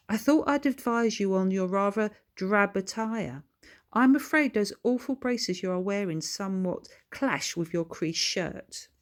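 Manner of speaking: lightly posh smug advice. Acted. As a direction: talk down to him sweetly. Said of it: "continued Billy smugly".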